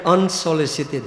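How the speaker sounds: "unsolicited" set out syllable by syllable; stress on unsolicited. Real, not acted. Preacher underlining a word for devotees, stress on "unsolicited". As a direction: lean deliberately on the word "unsolicited". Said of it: "I like to emphasize on the word".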